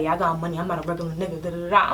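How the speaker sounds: low-pitched mock pickup line; imitated customer. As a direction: put on a low suitor's patter.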